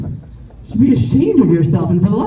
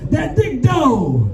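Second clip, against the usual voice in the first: mock shout; 4 semitones higher, much slower than usual. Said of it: "I shouted into his face".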